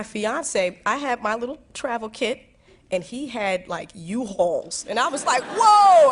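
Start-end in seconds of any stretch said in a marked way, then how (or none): 5.4-6.1 loud, high startled whoa; shocked whoa. Retold or imitated. Seeing her fiance's huge baggage, a loud startled whoa. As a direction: jump back at the sight of it.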